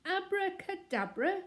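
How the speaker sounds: very high, loud, slow furious roar; raging shout again. Acted. Mister Curry still raging over the broken watch, shouting. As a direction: spit the word back in fury. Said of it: "shouted Mister Curry, beside himself with rage".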